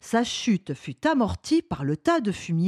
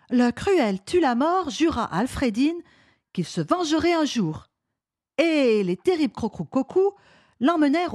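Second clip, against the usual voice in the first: put-on child reading with feeling; lightly voiced, animated storybook reader; expressive reading aloud; 3 semitones higher than usual. A narrator's reading. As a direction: read it out dramatically like a keen boy. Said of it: "lut fort bien en mettant le ton".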